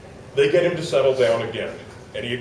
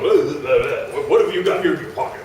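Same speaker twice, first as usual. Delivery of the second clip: in-your-face prying; 3 dB louder than usual. Retold or imitated. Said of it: "getting in my face".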